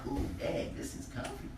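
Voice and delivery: soft whisper, almost breath; settling onto the rug in a whisper; whispered comfort. Retold or imitated. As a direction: whisper it cozily.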